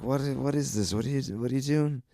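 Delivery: high-pitched, incredulous challenge; incredulous confrontation. Retold or imitated. Comic confronting a woman chatting mid-gig, incredulous.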